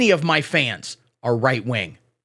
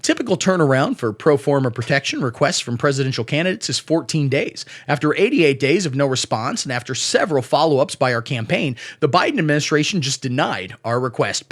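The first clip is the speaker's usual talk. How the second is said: RFK Jr. impression; 4 semitones lower than usual. Comedian reading the campaign statement as the candidate, low and raspy. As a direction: lower strained raspy read. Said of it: "Pitch perfect impression".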